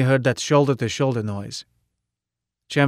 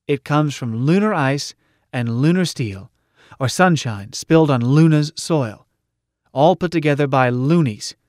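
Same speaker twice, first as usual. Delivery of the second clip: slightly raised, emphatic platform speech; rally the crowd with punchy phrases; rousing rally orator; 2 semitones higher, 3 dB louder than usual. Acted.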